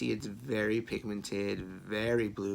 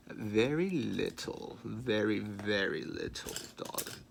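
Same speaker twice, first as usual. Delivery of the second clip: mock posh accent; 3 dB louder, slower than usual. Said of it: "That's a horrible accent".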